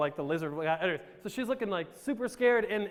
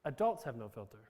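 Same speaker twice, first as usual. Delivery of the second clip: dropped low and soft, confiding; a hushed aside to the crowd; secret aside; 9 semitones lower, 7 dB quieter than usual. Pretend. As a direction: let the audience in on a secret, hushed. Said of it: "I'm gonna let you guys on".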